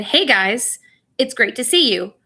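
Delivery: "Hey guys", breath pause, then "it's great to see you"; pause after guys. Shown as a demonstration. Teacher greeting class to demonstrate a comma, pause after "guys". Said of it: "the pause in my breath was after".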